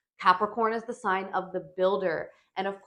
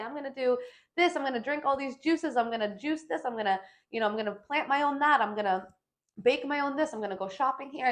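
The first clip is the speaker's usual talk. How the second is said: higher, bubbly list of fads; lightly mocking an eager trend-chaser; mock trendy resolutions; 5 semitones higher than usual. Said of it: "It's not to say".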